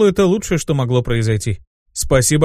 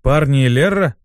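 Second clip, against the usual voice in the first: questioning echo; 4 dB louder than usual. Acted. Squadmate repeating the imp's address, questioning it. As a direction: throw the address back as a question.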